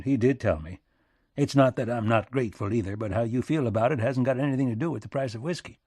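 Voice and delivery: lightly voiced folksy statesman, direct; a hint of country plain-speaking, getting to business; rustic American president. Lincoln's rustic voice in story.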